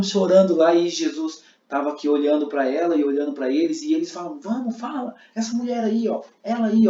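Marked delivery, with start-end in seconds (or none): 4.4-6.9 high, pushy accusation; accusing Pharisees. Shown as a demonstration. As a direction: point at the woman and demand. Fariseus apontando a mulher. (fariseus acusando, insistentes)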